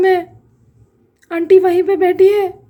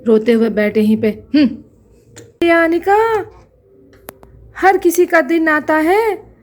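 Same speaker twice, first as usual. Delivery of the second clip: gloating villainess; 2 semitones lower than usual. Acted. Aunt gloats over crying niece.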